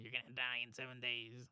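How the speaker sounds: lightly imitated creepy ghost-girl voice; a hint of a haunted child's warning. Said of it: "she has a creepy voice".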